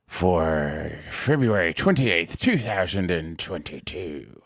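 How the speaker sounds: slow, low pirate drawl. Acted. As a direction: growl it out like an old sea captain. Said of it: "awesome impersonation of a pirate".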